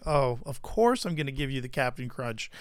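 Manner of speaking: soft, low, indulgent giving-in; lightly acted doting softness; melted heart. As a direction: give in tenderly to a crying child. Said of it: "your heart immediately melts and you're just like".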